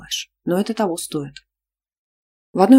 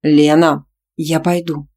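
firmly; 6 dB louder, slower than usual. Acted. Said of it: "уверенно отчеканила".

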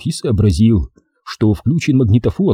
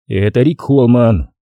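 dry, slow self-introduction; unhurried, matter-of-fact dryness. Acted. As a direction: state it dryly and slowly. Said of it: "сухо промолвил я".

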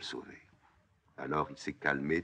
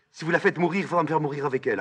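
high, loud, urgent demand; desperate ultimatum; 12 semitones higher, 6 dB louder, much faster than usual. Acted. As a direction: stand up to the king, crying out. Ismène défie Créon pour sa sœur. (ultimatum éperdu, voix montée)

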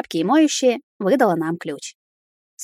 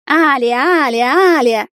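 louder, pleading call; 6 semitones higher, 5 dB louder, slower than usual. Acted. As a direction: call her name to stop her. Greg calling her repeatedly.

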